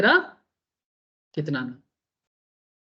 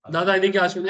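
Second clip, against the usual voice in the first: begrudging version. Retold or imitated. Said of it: "ऐसे अंदर ही तो जलन".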